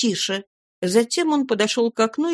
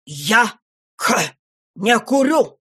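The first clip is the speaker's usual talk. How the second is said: angry; 2 semitones higher, 4 dB louder, slower than usual. A narrator's reading. Dorrit furious at John.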